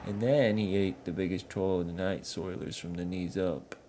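a dim troll explaining his chief; northern troll grumbling. Acted. Sligu recounts Yetu eating troll.

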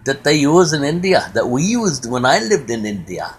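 lightly put-on Indian accent; Rajneesh's Indian accent. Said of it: "I love that accent".

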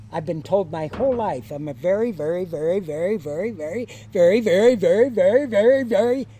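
mock crescendo of verys. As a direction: repeat it in a chant, rising in pitch and volume. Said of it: "he gets louder and louder".

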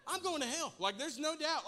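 loud, high-pitched despair; mock panic. Father realises his son copied him, hammed-up panic. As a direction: cry it out as if doomed.

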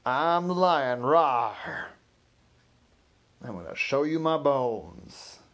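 loud, slow hammed-up lion performer; singing telegram guy hamming it up as a lion. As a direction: roar the riddle like a costumed lion. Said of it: "And they said".

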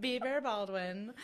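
slow, laughing. Real, not acted. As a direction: chuckle the name out slowly. Joking, laughing.

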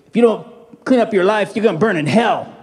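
a hint of a tough guy's threat over the fence; half-acted stern warning; lightly voiced street warning. Tough guy warns the teenager over the fence, lightly voiced threat. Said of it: "And the guy goes".

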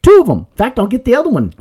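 high, loud sarcastic jab; mock the clerk with exaggerated sarcasm. Imitating the belt store clerk being sarcastic about the visual.

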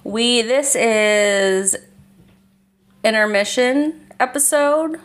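halting slow stumble, pitch jumping high on "episode"; fumbled phrasing. Real, not acted. Host fumbles introducing the episode, halting and slow. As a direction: trip over the words and leave gaps. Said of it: "I don't know why I said it like that".

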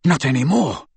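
panting through the words; breathless reply; out of breath. Acted. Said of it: "panted Harry".

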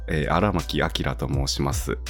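rough, hoarse hungover voice. Real, not acted. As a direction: speak through a hoarse, raspy throat. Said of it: "昨日飲みすぎて声がガラガラなんですけど".

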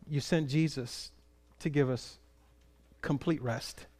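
unhurried prayer with long pauses. Real, not acted. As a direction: pray simply, phrase by phrase. Leads a closing prayer.

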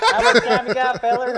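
loud, high Southern hick voice; mock a good-old-boy Southerner; Avery's Southern accent. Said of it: "he just becomes more and more Southern".

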